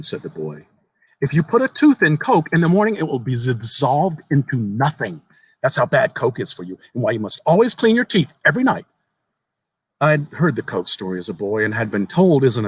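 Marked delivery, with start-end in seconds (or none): 1.2-8.9 a hint of a small earnest boy, raised pitch; lightly voiced young boy. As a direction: tell it like an eager child sharing a secret. Boy lectures on teeth.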